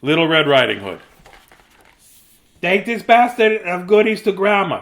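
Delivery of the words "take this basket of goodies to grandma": mother. Acted. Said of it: "said Little Red Riding Hood's mother".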